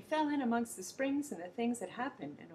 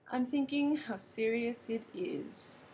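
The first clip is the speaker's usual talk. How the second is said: solemn Gumble; 2 semitones higher, slower than usual. Acted. Gumble answers gravely.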